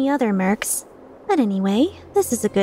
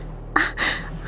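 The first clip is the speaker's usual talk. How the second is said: short, soft laugh; brief breathy chuckle at a threat; amused chuckle; 5 dB quieter than usual. Acted. Mercenary amused by a rival's insult, chuckling.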